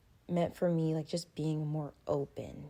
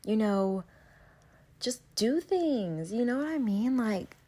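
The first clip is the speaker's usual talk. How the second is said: louder, exasperated venting with a sigh; real frustration, louder and pushing; frustrated; 5 semitones higher, 6 dB louder, slower than usual. Real, not acted. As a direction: let the frustration spill out. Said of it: "sounding so frustrated".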